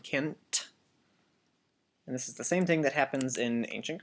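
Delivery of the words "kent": kent, with the O dropped and N and T together; kent, a quick softer contraction; clipped can't. Shown as a demonstration. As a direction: say kent as one short syllable. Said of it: "put the N and the T together to make the nt sound".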